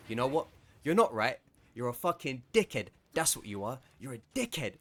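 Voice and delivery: mild mock yell, insulting; angry shout. Man shouting across the gate at the worker, angry. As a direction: bark the insults back. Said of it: "now he's shouting at me".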